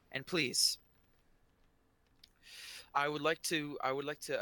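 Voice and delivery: mildly projected podium speech; lightly voiced official speechmaker; booming voice. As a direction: address a crowd with measured ceremony. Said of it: "the voice booms".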